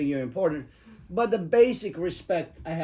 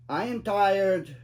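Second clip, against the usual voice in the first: tired passenger; 3 semitones higher, much slower than usual. Retold or imitated. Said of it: "he says to me something like".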